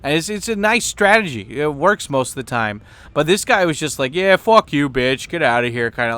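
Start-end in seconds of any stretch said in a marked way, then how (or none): 4.1-5.9 dismissive attitude. Retold or imitated. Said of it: "he was giving her that kinda attitude".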